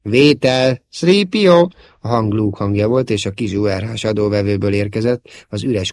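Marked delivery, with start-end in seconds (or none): 0.0-1.7 high, loud call for a reply; pleading call. A narrator's reading. Luke's voice from the transceiver, pleading. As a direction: keep calling the name insistently. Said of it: "könyörgő hangtól".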